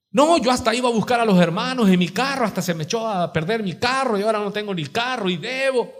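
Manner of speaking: high-pitched tale of grievance; complaining church member. Acted. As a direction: list your sacrifices in mock complaint. Voices member complaining of sacrifices. (queja fingida de feligrés, voz aguda)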